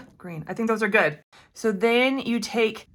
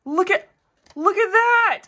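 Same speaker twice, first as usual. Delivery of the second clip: higher and louder, rising with delight; excited; 11 semitones higher, 5 dB louder than usual. Real, not acted. Crafter showing viewers her finished pendant, excited. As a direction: show it off with delight.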